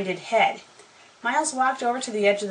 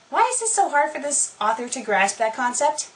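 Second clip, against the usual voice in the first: exasperated; 5 semitones higher than usual. Real, not acted. Reader exasperated by the author's spelling.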